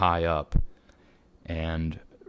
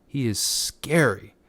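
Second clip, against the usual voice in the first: spooky stage whisper; 6 semitones higher than usual. Pretend. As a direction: whisper it like telling a ghost story. Repeats the line more dramatically.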